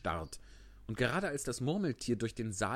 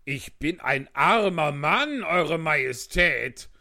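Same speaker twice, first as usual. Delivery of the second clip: trembling voice; 7 semitones higher, 10 dB louder, slower than usual. Acted. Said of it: "mit zitternder Stimme".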